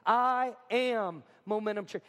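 slow "I am Momentum Church" for a crowd to join; "I am Momentum Church" drawn out as a call to repeat. Shown as a demonstration. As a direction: stretch out "I am Momentum Church", leading a group recital. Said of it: "Would you say that with me?".

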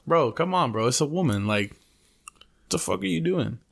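a hint of a fed-up father scolding, slowing at the end; imitating dad. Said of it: "My dad's like".

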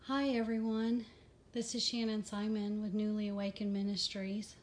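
slightly winded, catching breath. Real, not acted. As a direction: talk while still short of breath. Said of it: "Kind of out of breath".

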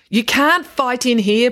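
high, loud, drawn-out objection; protesting. A narrator's reading. Bank manager to two fighting boys, protesting. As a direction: object firmly, stretching the words. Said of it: "protested the bank manager".

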